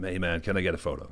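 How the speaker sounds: put-on casual American accent. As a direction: do a laid-back American fan. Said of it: "That's my American accent".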